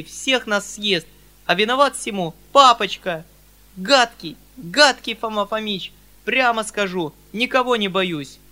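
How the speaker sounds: put-on a girl pouring out all her anger at Фома; furious girl's tirade. Саша в гневе обличает Фому. (гневная тирада девочки, выше и громче)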